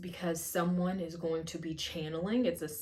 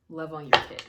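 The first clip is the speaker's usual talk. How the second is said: channeled spirit voice; 2 semitones lower, 7 dB louder, faster than usual. Pretend. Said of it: "that was their energy".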